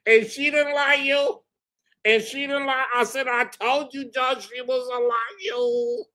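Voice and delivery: high, near-crying laughter; laughing triumph. Real, not acted. Telling viewers he won, laughing. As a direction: gloat through tears of laughter.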